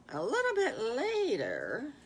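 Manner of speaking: slow hushed storyteller whisper; hushed bedtime-story tease; suspense whisper. A narrator's reading. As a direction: lean in and whisper slowly to the kids. Storyteller builds suspense for children.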